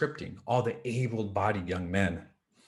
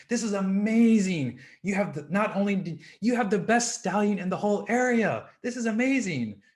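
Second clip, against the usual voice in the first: high, loud, gushing praise; excited villagers; 8 semitones higher, 5 dB louder than usual. Acted. Villagers gush to the farmer about his stallion, excited and loud. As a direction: cheer the farmer on, higher and louder.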